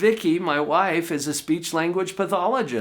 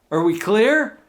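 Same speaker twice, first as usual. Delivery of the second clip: emphatic, louder; 6 semitones higher, 6 dB louder than usual. Real, not acted. Rhetorical emphatic question.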